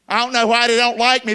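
lightly voiced complaining churchgoer; mock whiner. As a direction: whine it like a sulky member. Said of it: "'cause you're always negative".

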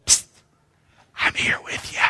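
hushed, unvoiced whisper; very soft secret whisper; still small voice. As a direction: whisper it softly, like a private word from God. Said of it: "hear that still small voice".

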